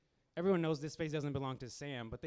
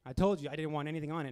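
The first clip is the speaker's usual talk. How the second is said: louder, faster mock rant; imitating an irate customer snapping back; angry customer; 6 dB louder than usual. Customer complaining to waiter about the sauce, mock angry. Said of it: "He's like".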